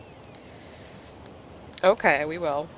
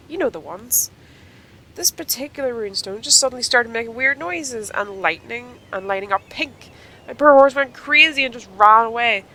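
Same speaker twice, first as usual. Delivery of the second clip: put-on lightly raised, sore young rider; Sonya voice; 5 semitones higher, 4 dB louder than usual. Sonya explaining her fall to her friend, lightly raised sore voice. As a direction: tell it with a bit of a sorry-for-herself whine.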